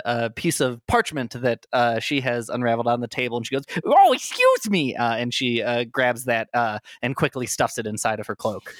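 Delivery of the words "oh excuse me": high, slow, weepy leading lady; high tearful diva voice; sobbing actress voice. Acted. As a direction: sniffle it out, high and fragile.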